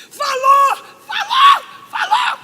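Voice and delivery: very high, loud shrieked exclamations; astonished shouting. Retold or imitated. Reacting to the doctor saying God spoke, astonished shouting. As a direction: shriek it in acted disbelief, word by word.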